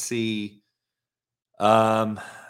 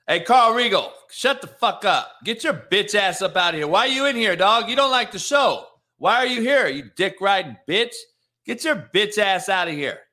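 furious shouting, much higher and louder; angry yelling; 9 semitones higher, 6 dB louder than usual. Real, not acted. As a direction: chew the troll out of the room. Host yells at chat troll.

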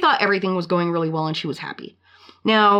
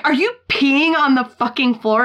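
shocked husband quote; 6 semitones higher, 4 dB louder than usual. Retold or imitated. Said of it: "And he's like".

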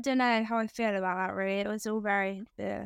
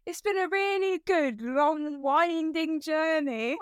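laughing through a quote; 5 semitones higher, slower than usual. Retold or imitated. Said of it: "something along the lines of".

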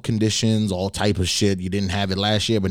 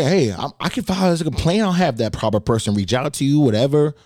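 polite agent; 6 semitones higher than usual. Retold or imitated. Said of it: "So I, I say".

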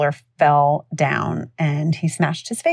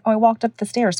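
put-on little boy; 6 semitones higher than usual. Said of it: "He's like".

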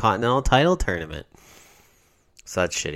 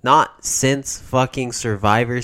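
big hyped-up announcement; excited; 6 semitones higher, 5 dB louder, slower than usual. Acted. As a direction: belt it like a ring announcer. Hyping Madison Square Garden.

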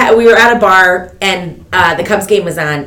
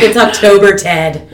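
laughing retort; 5 dB louder than usual. Retold or imitated. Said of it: "And I was like".

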